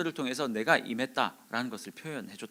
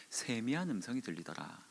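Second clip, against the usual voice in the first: hushed, softened reading; small still voice; 2 semitones lower, 11 dB quieter than usual. Retold or imitated. Preacher quoting scripture on the still small voice, hushed. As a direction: drop well below preaching level. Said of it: "아주 조그만 이야기로".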